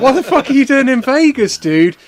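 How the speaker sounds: loud, high, startled outburst; acted shock at a surprise encounter. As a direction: blurt it out in disbelief. Acting startled at meeting wrestler.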